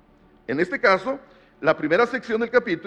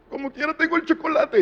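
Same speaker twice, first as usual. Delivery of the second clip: put-on child's voice; 10 semitones higher than usual.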